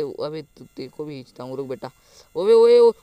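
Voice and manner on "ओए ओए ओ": loud, higher-pitched yell of alarm; alarmed shout. Real, not acted. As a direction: call out sharply to stop an attacker. Alarmed by attack in game. (घबराकर ज़ोर से चिल्लाना)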